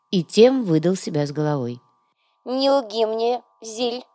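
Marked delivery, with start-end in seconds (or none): 2.4-4.0 stern. A narrator's reading. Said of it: "строго велела вдова".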